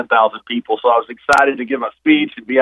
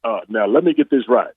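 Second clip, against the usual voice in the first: lightly imitated famous deep actor's voice; a hint of a weighty, measured bass impression; James Earl Jones voice; 4 semitones lower than usual. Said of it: "with that James Earl Jones voice".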